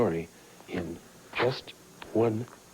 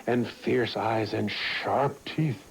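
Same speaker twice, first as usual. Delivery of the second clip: slow storybook build to teeth; reading to children; much slower than usual. A narrator's reading. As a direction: draw out the scary detail slowly.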